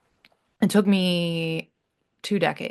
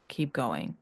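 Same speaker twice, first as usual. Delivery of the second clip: "Keep going." said lower and softer, like a quiet echo; 6 semitones lower, 8 dB quieter than usual. Real, not acted. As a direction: let "Keep going." fall away, low and soft. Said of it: "repeated encouragement, softer echo".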